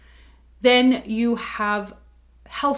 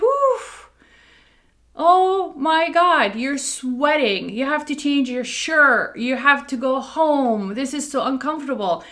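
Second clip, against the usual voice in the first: exasperated groan; 4 semitones higher than usual. Retold or imitated. Coffee sets off a hot flash.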